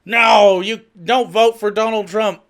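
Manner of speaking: lightly hammed-up scolding order; Nancy Pelosi. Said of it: "Nancy Pelosi sitting there waterboarding Republicans like".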